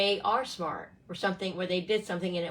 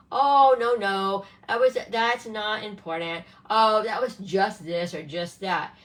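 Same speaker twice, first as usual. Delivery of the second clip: dismissive parent; 6 dB louder than usual. Retold or imitated. Parent brushing off teen's feelings.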